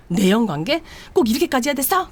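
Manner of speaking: a betrayed wife rounds on her husband, outraged. Retold or imitated. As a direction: demand an answer, rising in disbelief. Wife's outraged questions.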